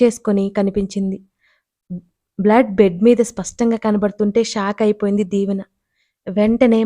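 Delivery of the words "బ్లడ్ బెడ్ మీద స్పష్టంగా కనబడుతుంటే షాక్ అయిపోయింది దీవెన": ordinary delivery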